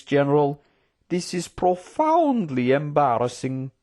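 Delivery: courtly voice, high outrage settling into apology; scold, then smooth things over; outraged Trook politician. Acted. Trook condemning spies then apologising to the general, officious.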